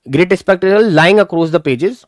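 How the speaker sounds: slow, deliberate textbook reading; slow reading aloud. Shown as a demonstration. Teacher reading the story slowly to students. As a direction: read each word out slowly for the class.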